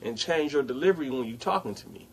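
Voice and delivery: calm and quiet. Retold or imitated. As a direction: settle her down, quietly firm. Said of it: "I said it calm just like this".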